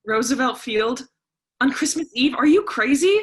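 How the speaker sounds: rising into an indignant outburst; incredulous protest. Acted. Daughter balks at Christmas Eve shopping, disbelieving and loud.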